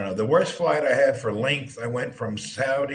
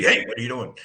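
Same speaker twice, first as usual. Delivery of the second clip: brisk city Texan; city speech; faster than usual. Retold or imitated. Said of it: "Whereas in the city".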